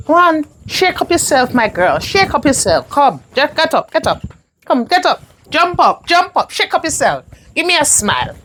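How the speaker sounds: brisk repeated commands, like a coach; rallying urging. Acted. Mother rallies her heartbroken daughter to get up, urging. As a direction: rouse someone out of despair.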